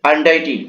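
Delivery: "আনডাইটি" said as an-DAI-ti, falling at the end; correct pronunciation. Shown as a demonstration. Teacher answers own pronunciation question, "আনডাইটি" said with ai. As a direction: model "আনডাইটি" with a clear ai in the middle. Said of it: "উচ্চারণটা কি হবে?".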